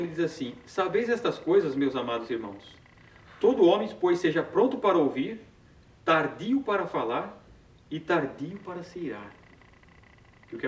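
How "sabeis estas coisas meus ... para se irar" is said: emphatic, measured Bible verse reading; scripture reading. Acted. Reads the verse aloud. (leitura bíblica enfática)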